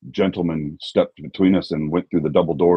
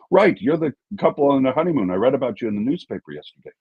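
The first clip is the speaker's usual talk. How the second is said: higher friendly voice; 9 semitones higher than usual. Retold or imitated. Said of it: "He goes".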